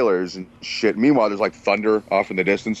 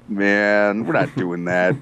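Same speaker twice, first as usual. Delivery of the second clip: mellow refusal; much slower than usual. Retold or imitated. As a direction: turn it down calmly, unbothered. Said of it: "Tom's all mellow and shit".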